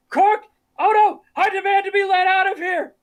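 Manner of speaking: high, loud indignant yell; mock screaming. Quark screaming in a cell at Odo, mock outraged yell. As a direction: holler to be freed, hammed up. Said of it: "there's a Quark screaming in a cell".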